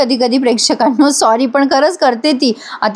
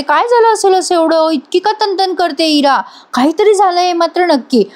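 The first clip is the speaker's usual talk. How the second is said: higher, a lightly voiced puzzled mother; worried mother thinking aloud; 5 semitones higher than usual. Gautami wonders why Ira is so upset, lightly voiced worried mother. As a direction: wonder aloud, half to yourself.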